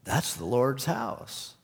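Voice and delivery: slow, hesitant, ending with a rise; unsure guy excusing himself; slow, timid answer from the embarrassed smoker; sheepish smoker. Retold or imitated. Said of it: "He said".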